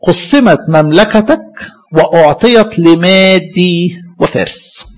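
slow, word-by-word verse reading, trailing off at the end; slow solemn reading. Shown as a demonstration. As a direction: spell out the verdict deliberately. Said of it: "بالمفرد بقى".

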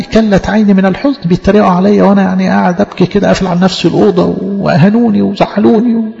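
whiny, sulking complaint; mock self-pity. Mocking a wrong reading of Job, whiny self-pity. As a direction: parody a sulking mourner. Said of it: "هو ده حال أيوب يعني؟".

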